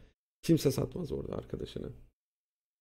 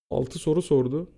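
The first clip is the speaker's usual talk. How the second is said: normal talking voice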